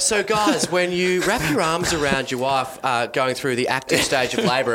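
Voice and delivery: lightly put-on antenatal instructor voice; birthing class teacher. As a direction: imitate a teacher patiently addressing the class.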